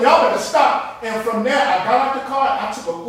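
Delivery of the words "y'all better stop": louder retold warning in full voice; firm warning spoken aloud, no whisper; voiced warning. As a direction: say the warning out loud. Repeats the warning, now aloud.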